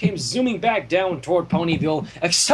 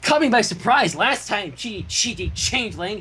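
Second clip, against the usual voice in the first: crowing; 4 semitones higher than usual. Acted. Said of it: "she crowed".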